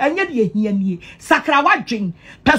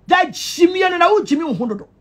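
shouting; 4 semitones higher than usual. Real, not acted. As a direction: shout it out at them. Shouted insult.

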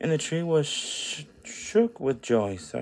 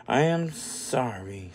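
a slow, mild sigh of regret; understated sorry sigh; 2 semitones lower than usual. Acted. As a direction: let the apology sag out. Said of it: "sighed the tree".

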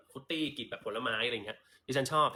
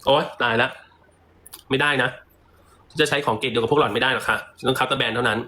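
mock snobby madam; 13 dB louder than usual. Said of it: "พูดเล่นค่ะ".

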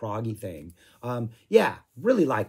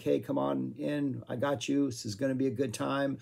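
gentle welcome; 4 dB quieter than usual. Retold or imitated. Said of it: "kind of almost kind of gentle".

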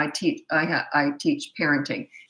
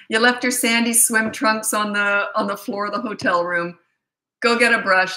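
mock parent telling off; 3 semitones higher, 3 dB louder than usual. Acting out parent scolding kid.

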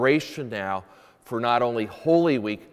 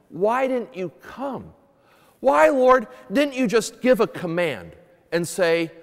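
pleading Martha; 6 semitones higher than usual. Retold or imitated. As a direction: cry out to Jesus as grieving Martha. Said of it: "Wasn't she really saying".

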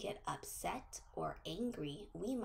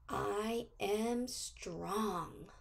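very slow, each word spaced out; slow affirmation for kids to repeat; much slower than usual. Shown as a demonstration. Teacher leads children in a slow affirmation. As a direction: lay it out word by word for the class to echo.

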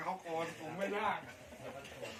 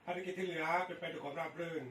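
over walkie talkie; 2 semitones higher, much faster than usual. Real, not acted. Radio check reply over the air.

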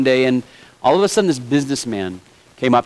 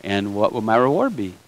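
cocky; 6 semitones lower, 5 dB quieter than usual. Acted. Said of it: "And kinda cocky-like".

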